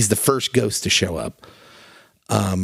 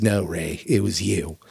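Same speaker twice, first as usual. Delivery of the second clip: lightly voiced low, quiet ghost; a lower, understated movie-character quote; Shoeless Joe; 5 semitones lower, 3 dB quieter than usual. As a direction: gently correct him, pitched down. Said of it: "pans back to Shoeless Joe, and he says".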